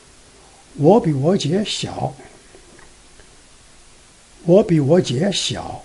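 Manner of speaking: slow "我比我姐小", "我比我姐" joined, slight break before 小; tiny pause before 小. Shown as a demonstration. Teacher trying it again, slow, tiny pause before 小. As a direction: link "我比我姐" with changed tones, then set "小" apart. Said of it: "Let me try it again".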